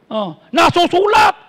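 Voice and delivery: slow sly devil quoting scripture; mock devil voice. Preacher voicing the devil to the congregation, sly and slow. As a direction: play the devil citing the Word, slowly.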